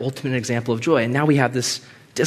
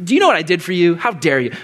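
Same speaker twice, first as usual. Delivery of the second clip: indignant; 4 semitones higher, 3 dB louder, much faster than usual. Pretend. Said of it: "Not this indignant".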